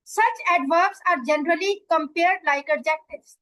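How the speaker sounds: very slow, careful textbook reading; slow dictation read. Shown as a demonstration. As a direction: spell the rule out slowly for students. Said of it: "teacher reads rule slowly". (बहुत धीमे, सावधानी से पाठ पढ़ना)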